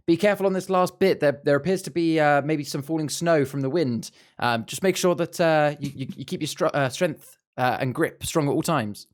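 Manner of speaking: half-hearted calling-up to the group; mock shout to others. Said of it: "turn and shout to the others".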